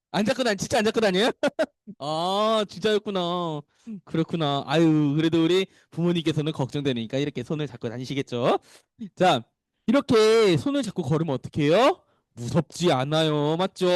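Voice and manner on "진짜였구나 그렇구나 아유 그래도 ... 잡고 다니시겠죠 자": ordinary delivery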